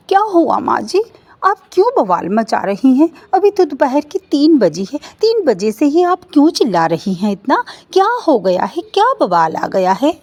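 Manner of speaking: daughters-in-law answering their shouting mother-in-law; flustered daughter-in-law. Acted. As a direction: protest politely but worried.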